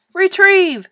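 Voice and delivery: high, loud order to fetch; ringing trainer's command; shouted command. A narrator's reading. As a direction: call it sharply to a pet. Boy commands tadpole to fetch.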